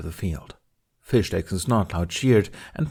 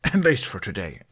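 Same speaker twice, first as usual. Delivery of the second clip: sheepish aside. Acted. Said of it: "He coughed into his fist".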